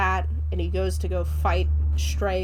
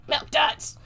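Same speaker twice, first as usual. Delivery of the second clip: high, loud gremlin cry; movie gremlin impression; 7 semitones higher, 4 dB louder than usual. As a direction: call it out like a greedy little gremlin. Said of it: "the gremlin next to him is like".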